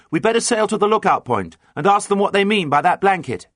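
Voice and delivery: high, carrying call. A narrator's reading. Captain replies to the mate across water, calling out. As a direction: call the order across to the other boat. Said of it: "called Captain John".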